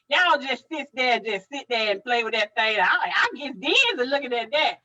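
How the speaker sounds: grandma's voice. Retold or imitated. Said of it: "And she just said".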